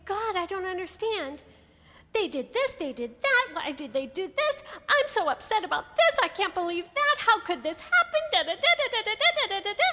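rising, exasperated griping at God, building into babble; complaining prayer. Pretend. Speaker mocking a complaint-list prayer to God, rising exasperated griping. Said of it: "ever have conversations with God? Saying".

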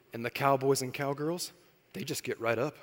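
put-on hushed child's conclusion; daughter's voice. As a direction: wrap it up like a sure small child. Daughter finishes explanation.

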